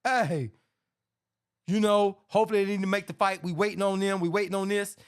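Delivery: mocking evasive dodge. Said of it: "when you say".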